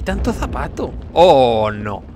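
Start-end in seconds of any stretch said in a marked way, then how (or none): 1.1-2.0 loud drawn-out wail, dropping on "no"; theatrical dismay. Pretend. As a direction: repeat it as a hammed-up lament. Shoe beast catches the player. (lamento teatral y fuerte)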